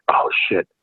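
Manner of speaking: whispered dread; scared under breath. Retold or imitated. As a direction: breathe it out in fear. Young player scared.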